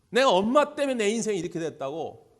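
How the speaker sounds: hammed-up furious cry of blame; angry shout. Prisoner son blaming his mother to the visiting pastor, shouting. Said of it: "막 화를 내는 거예요".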